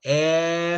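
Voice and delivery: 에 stretched into a long, steady vowel; stressed A sound. Shown as a demonstration. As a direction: draw out 에 to demonstrate the vowel. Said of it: "그 A의 강세가".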